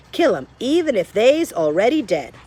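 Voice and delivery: lightly voiced admiring girl; Meg echoing Cook. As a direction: parrot it back proudly.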